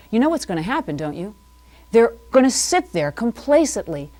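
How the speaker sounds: a touch of solemn host gravity, half in jest; mock serious demeanor. Host warning the TV viewers, mock serious. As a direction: put on a serious face for the viewers. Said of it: "I'm gonna get my serious demeanor".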